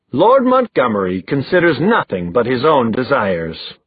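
lightly gravelled mock aristocrat; a hint of rough-voiced villainy; gravelly voice. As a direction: play a rakish lord with a touch of gravel. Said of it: "he said in a gravelly voice".

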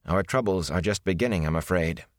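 a touch of gentle comfort. Acted. Wisdom comforting Rand, understated gentle tone. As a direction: soften it for the grieving boy. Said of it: "she said gently".

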